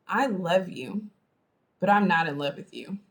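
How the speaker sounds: slow, deliberate. Shown as a demonstration. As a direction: draw out I LOVE YOU, then pause and drop. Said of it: "there's a difference between".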